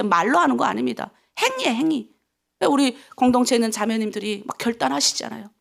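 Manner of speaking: ordinary talk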